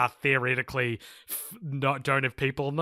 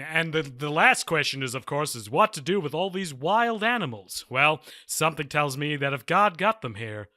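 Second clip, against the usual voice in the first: news reporter voice. Retold or imitated. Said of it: "this news reporter voice".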